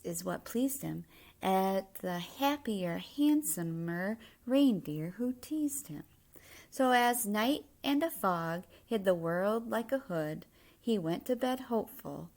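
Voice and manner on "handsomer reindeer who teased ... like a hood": ordinary delivery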